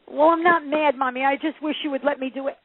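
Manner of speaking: lightly voiced child pleading with mommy; protesting daughter. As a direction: imitate a kid protesting, pitched a bit up.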